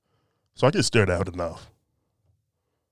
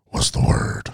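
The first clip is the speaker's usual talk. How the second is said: whispered to himself, searching for the word; breathy self-prompt under his breath; 6 dB louder, slower than usual. Real, not acted. Host whispering to himself, hunting for a word.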